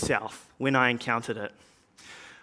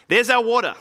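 high, loud announcement; excited shout; 7 semitones higher, 5 dB louder, faster than usual. Acted. Traveller points the apostle to water for baptism, shouting. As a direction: shout it out with pitch well up. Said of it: "he shouted".

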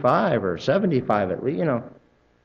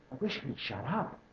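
muttered aside; 16 dB quieter than usual. Retold or imitated. Annoyed listener's inner thought.

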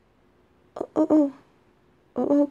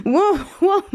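higher, laughing startled whoa; 7 semitones higher than usual. Real, not acted. Laughing as her excited pet greets her. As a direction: laugh as the pet rushes you.

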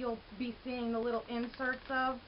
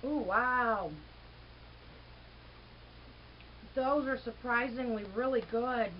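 chewing while speaking; talking between bites; mouth full; 3 semitones lower than usual. Real, not acted. Seen 0: She bites a stick at +0.6, chews and keeps eating after.

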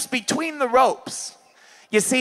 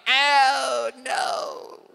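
whining. Retold or imitated. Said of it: "They start whining".

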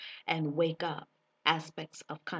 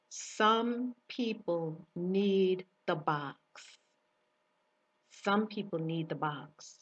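slow divine voice; slower than usual. Retold or imitated. The divine voice speaks.

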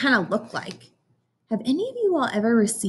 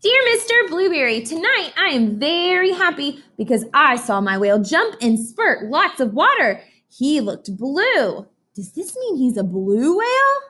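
put-on much higher, louder happy child voice; Emily's excited voice; 7 semitones higher, 3 dB louder than usual. Teacher voicing Emily's excited letter about her whale, much higher. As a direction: bubble over like a thrilled little girl.

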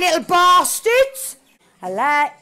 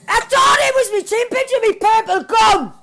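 excited shouting. Real, not acted. Gamer shouting at a mix-up, excited yell. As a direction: shout it half laughing at the mix-up.

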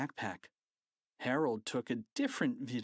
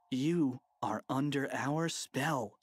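mock hypnotist; slower than usual. Boy commanding hypnotized principal.

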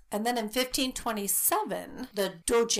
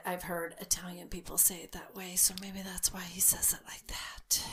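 whispered aside; 6 dB quieter than usual. Real, not acted. Aside about her dad.

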